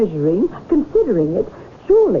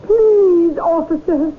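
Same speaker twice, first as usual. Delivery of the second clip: pleading; 4 semitones higher, much slower than usual. Acted. Second, stronger plea to officer.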